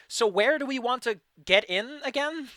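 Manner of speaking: excited character voice. Acted. Evie gestures frantically, character asks.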